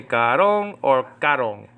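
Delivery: karong said twice, stress moved from one syllable to the other; contrasting word stress. Shown as a demonstration. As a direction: offer karong two ways, shifting the stressed syllable. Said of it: "She puts the emphasis on".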